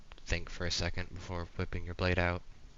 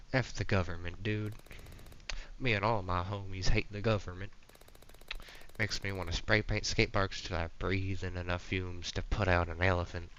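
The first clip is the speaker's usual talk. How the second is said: lightly voiced Southern dude; Southern accent. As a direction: slip into a casual Southern accent. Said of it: "This guy's Southern now".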